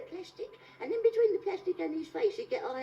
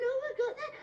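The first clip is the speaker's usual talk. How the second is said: high, eager glee; like he's winning; growing lottery excitement; mock excitement; 10 semitones higher than usual.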